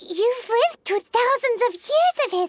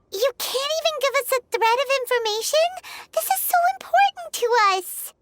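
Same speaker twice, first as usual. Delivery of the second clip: quick, rising, higher plea; pleading; 4 semitones higher, faster than usual. Acted. Paimon begging Zhongli for information, fast rising plea. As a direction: push him hard for an answer, fast.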